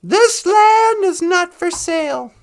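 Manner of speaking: mock-heroic proclamation, high, loud and slow; Val Kilmer. Hero to crooked cops, proclaiming the land unsellable. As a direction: stretch it out as a grand movie declaration. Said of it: "Val Kilmer was all".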